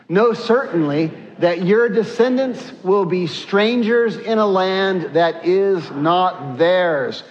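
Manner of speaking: slow, measured reading aloud with the congregation; unison scripture reading. Shown as a demonstration. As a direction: read it together, deliberately. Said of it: "let me hear you read this in a unified voice".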